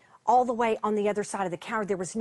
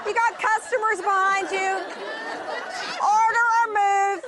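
impatient coworker; 10 semitones higher than usual. Retold or imitated. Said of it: "The other woman is just going like".

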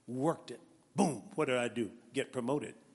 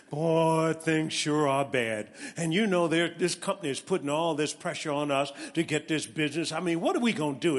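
louder, mock whining of gloomy managers; mock complaining; 5 dB louder than usual. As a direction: ham up the pity party. Managers' pity party voiced.

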